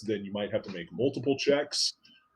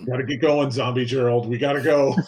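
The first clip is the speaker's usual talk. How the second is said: urgent call; 3 semitones higher, 8 dB louder than usual. Acted. Urging zombie companion in character.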